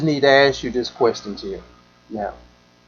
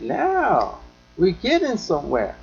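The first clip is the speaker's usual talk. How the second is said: thinking aloud; 3 semitones higher, 6 dB quieter than usual. Real, not acted. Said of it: "I'm saying that in my mind".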